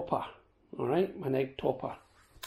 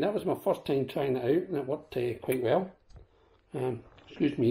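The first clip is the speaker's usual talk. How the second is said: talking through a mouthful of egg; chewing while speaking; mouth full. Real, not acted. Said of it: "eating with my mouth full".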